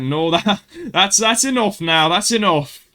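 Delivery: gently calm the class down; teacher in good mood. Retold or imitated. Teacher in a good mood stopping the noise, a mild slow telling-off. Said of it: "be like".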